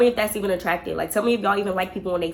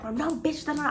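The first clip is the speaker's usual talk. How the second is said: mock yelling; 8 semitones higher, 5 dB quieter than usual. Friend pretending to argue at the crash, mock yelling. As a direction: lightly imitate yelling at someone off the phone. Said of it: "act like she yelling at somebody back".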